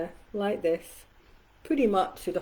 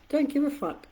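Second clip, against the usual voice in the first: defiant; 7 semitones higher than usual. Real, not acted. Defiant aside.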